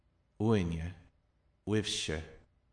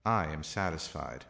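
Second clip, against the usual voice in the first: "I" leads firmly, the rest drops; emphatic "I"; stress on I; 4 semitones lower than usual. Shown as a demonstration. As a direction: put the weight on the opening "I". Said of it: "They can also be added".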